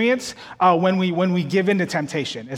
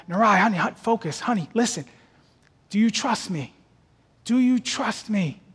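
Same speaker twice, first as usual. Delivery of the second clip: put-on gently steady a scared child; calming mom; 2 semitones higher than usual. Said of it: "my wife is looking at her in the face and going".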